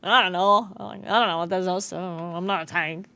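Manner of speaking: a lightly voiced clueless ranged coach; imitating Tattles. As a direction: redo Tattles exactly, trailing off helplessly. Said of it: "in that exact voice, by the way".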